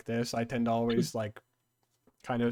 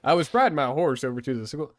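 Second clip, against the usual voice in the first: playful Southern twang; Southern accent; 4 dB louder than usual. Acted. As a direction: top the joke in a Texas accent. Continuing the Texan act.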